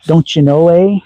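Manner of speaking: put-on light Canadian accent, the eh tossed up at the end; breezy Canadian accent with a lifted eh. Streamer lightly mimics a Canadian accent for a viewer.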